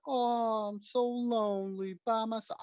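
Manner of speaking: high, breathy-free swoony housewife voice, pitched well up; lonely housewife. Pretend. Podcaster voicing a lonely housewife for his joke plot, in a high mock-swooning voice. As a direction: sigh it out like a neglected housewife in a cheesy film. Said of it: "she's like".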